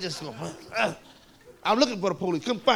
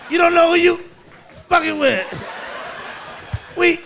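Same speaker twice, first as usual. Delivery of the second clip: put-on little bitty kid; 6 semitones higher than usual. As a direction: threaten like a pint-sized gangster, pausing for weight. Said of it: "little bitty was talking about".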